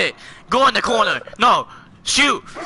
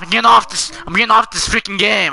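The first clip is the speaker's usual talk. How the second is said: angry yelling; faster than usual. Real, not acted. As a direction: announce a rage quit. Fed-up player quits after dying.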